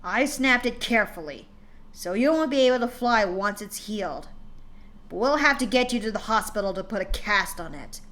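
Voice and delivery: father snapping at his crying daughter, stern and loud; harsh father. Acted. Father voiced in story.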